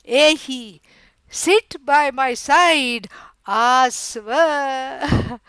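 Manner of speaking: slow, drawn-out affectionate summons; slowly inviting a loved one over; loving invitation. Retold or imitated. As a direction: imitate a fond call, stretching each word. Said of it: "calls her with utmost love".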